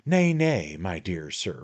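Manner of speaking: a light, pleading little lawyer; remonstrating attorney. Acted. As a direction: hold him back with a fussy plea. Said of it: "remonstrated the little attorney".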